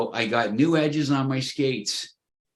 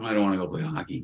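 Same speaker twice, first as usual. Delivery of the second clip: softer, lower, fast grudging mumble; mock reluctant whine; 5 semitones lower, 4 dB quieter, much faster than usual. Player who doesn't want to play hockey, mock grudging whine. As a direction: drag your feet, hammed-up unwilling.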